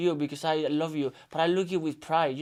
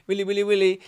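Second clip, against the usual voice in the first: put-on child voice; 3 semitones higher, 5 dB louder, faster than usual. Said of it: "I was like".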